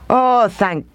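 slow, relieved and moved; tearful joy. Acted. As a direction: breathe out thankful relief. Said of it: "with tears of joy".

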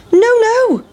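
a saucy little refusal; pancake crying out. Acted. Pancake refusing the farmer, high squeaky cry. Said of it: "cried the big pancake".

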